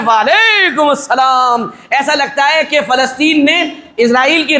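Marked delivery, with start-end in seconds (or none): 0.1-1.7 mock loud reply. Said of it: "لوگ بھی بڑے زور سے کہتے ہیں".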